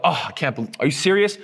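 mock exasperated disbelief; scoffing. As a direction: imitate someone scoffing in frustration. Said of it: "rolling your eyes or scoffing".

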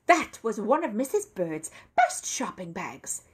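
slow, indignant bear exclaiming; hot protest. A narrator's reading. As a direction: protest hotly, every word weighted. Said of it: "he exclaimed hotly".

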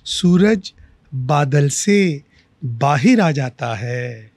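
slow, drawn-out verse, repeated line lifted; mushaira-style recital, lingering on each phrase; poetry recitation. Acted. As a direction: recite with long, measured pauses. Recites own verse to host.

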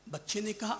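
usual speaking voice

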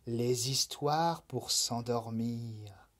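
soft, slow lulling tone; soft sleepy murmur; soothing. Acted. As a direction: hush the rabbit toward sleep. Night offers bedtime stories.

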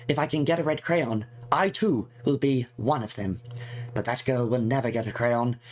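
lightly voiced fretful girl reading her diary. Player voicing the game character's diary entries, lightly fretful. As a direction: read it as a worried schoolgirl's diary, lightly put on.

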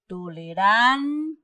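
tolerancia drawn out, leaning long on ran; stress on RAN. Shown as a demonstration. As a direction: slowly read tolerancia, hold RAN, then pause before cia. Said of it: "la que suena más fuerte".

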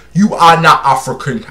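imitating an African accent. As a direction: quote them in a mock African accent. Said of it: "I can take their accents".

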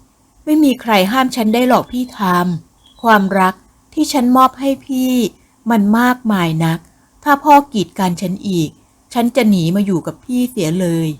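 lightly voiced young woman in love, pitch lifted at first; devoted, defiant sweetheart. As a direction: plead devotion to a lover with mild insistence.

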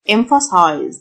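emphasize said "EM-fuh-size". Shown as a demonstration. Teacher showing learners the ph sound, f in the middle of emphasize. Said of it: "ال P H تنطق فه".

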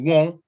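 "won" said high; dialect variant. Shown as a demonstration. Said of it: "Some of my people say".

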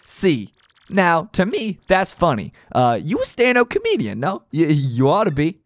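gruff gangster boss, amused then menacing; a hint of a New York mob boss; tough mob boss. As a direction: lean into the Don's threats. Reads mob boss Don Pianta dialogue.

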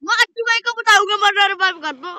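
fast, loud frantic plea; panicking gamer. Real, not acted. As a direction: rush it out in panic. Threatening and begging teammate.

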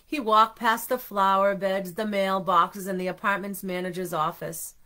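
measured, steady read-aloud narration; storybook reading. A narrator's reading. Parent narrating Arnie's departure to children, measured storybook reading. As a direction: list each place evenly for little listeners.

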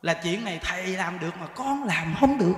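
ordinary talk

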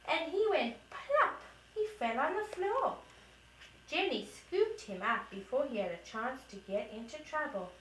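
put-on lively storybook voice for a toddler; reading to children. Mom reading the kitten story to her toddler. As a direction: read it brightly to a little one. Mom reads picture book aloud.

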